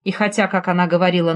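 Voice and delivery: usual speaking voice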